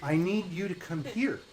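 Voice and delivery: sweet witch coaxing. Acted. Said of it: "she says".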